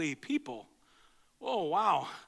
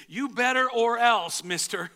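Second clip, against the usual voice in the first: slow, louder mock warning; mock stern threat; 3 semitones higher, 6 dB louder, slower than usual. Pastor mimics a threatening God, stern and slow. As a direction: wag a finger as a threatening God. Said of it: "a God who says".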